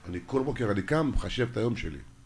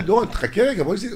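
higher, louder voice of wife, lightly mocking; imitating wife; 6 semitones higher, 5 dB louder than usual. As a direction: play the wife asking to stay angry. Voices his wife's request. (חיקוי קל של האישה, גבוה וחזק)

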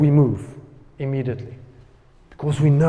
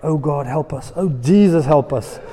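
mock panic; 7 dB louder than usual. Panicked Israelites crying for help.

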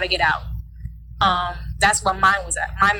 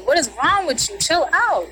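retold exasperated protest; 6 semitones higher than usual. Sister grabbing her art.

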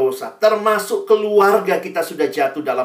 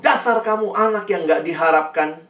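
retold scolding, mildly raised voice; angry father; 3 semitones higher than usual. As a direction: act out a father's rebuke with some restraint. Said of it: "papanya marah". (ayah marah, ditirukan)

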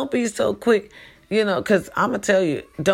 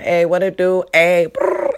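hollering; 4 dB louder than usual. Retold or imitated. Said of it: "I'm hollering".

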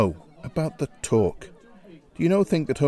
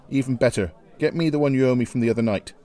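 demanding; much faster than usual. Acted. Shea demands owed whiskey.

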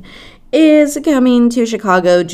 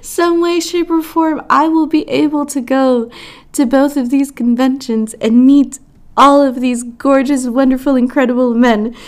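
hopeful excitement; 5 semitones higher than usual. Real, not acted. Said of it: "I'm definitely manifesting".

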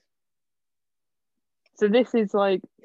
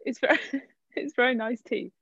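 laughing; 2 semitones higher than usual. Real, not acted. Trying to review while giggling.

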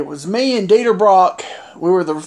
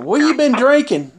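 higher-pitched, retold disbelief; incredulous question; 5 semitones higher than usual. Wrestler asking his opponent what he drank, incredulous. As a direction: act out asking him, incredulous.

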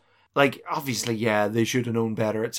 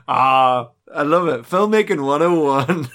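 sarcastic; 5 dB louder than usual. Retold or imitated. Sarcastic praise.

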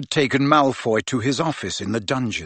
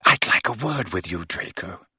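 sudden stern Snape; 5 semitones lower than usual. Acted. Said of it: "said Snape suddenly".

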